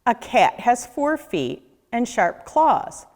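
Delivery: ordinary delivery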